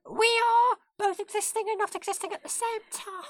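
very high squeaky ferret voice. Pretend. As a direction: squeak back like a ferret student. Ferret student role play.

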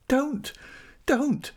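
high-pitched anguished plea; desperate, high-voiced shriek. A narrator's reading. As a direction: shriek it, begging them to stop. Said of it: "she shrieked".

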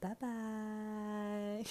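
put-on retelling a sassy no to a boy who wants her back now; sassy brush-off. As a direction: shut him down with attitude, a sing-song bye. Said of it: "And I said".

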